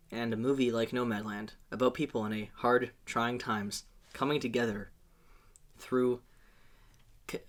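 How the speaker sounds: soft, earnest car-ad pitch; solemn hard sell ad read; commercial voice. Pretend. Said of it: "It's like you're trying to sell me a car".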